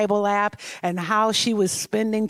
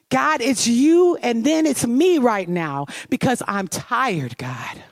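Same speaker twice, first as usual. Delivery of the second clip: weary plea; 3 semitones higher than usual. Retold or imitated. Echoing the prayer's anguish.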